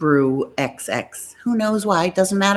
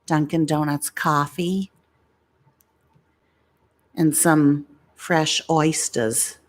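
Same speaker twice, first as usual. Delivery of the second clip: mock Boston accent impression. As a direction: imitate a heavy Boston talker. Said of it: "he talks with a Boston accent".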